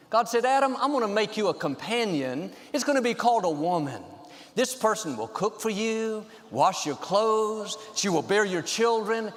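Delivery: quiet storytelling. A narrator's reading. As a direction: tell it softly, drawing them in. Quiet joke telling.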